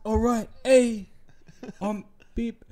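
imitating a cheesy host on the mic; mock MC announcement.

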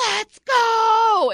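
full-throated hype yell; screaming. Retold or imitated. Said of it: "screams at the top of his lungs".

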